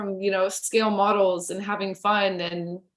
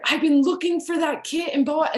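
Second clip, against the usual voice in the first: indignant disbelief; 6 semitones higher than usual. Retold or imitated. Daniel protesting, still shocked.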